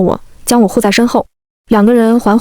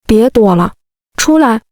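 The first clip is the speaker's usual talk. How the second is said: mock-angry, calling them out of hiding; a sulky boy's indignant summons; huffy call-out; slower than usual. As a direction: put out, half-playful command. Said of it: "他气呼呼地叉腰".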